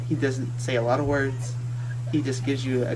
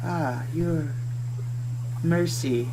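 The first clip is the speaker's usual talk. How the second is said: very calm voice; 4 dB quieter, slower than usual. A narrator's reading. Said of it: "a very calm voice".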